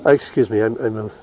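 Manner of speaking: speaking between breaths, short of breath. Real, not acted. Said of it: "I'm a little short of breath".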